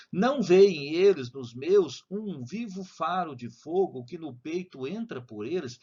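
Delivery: slow poem recital; slow reading. Shown as a demonstration. Teacher reading a sonnet to students, slowly. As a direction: read the lines slowly and clearly. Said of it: "vou ler devagar".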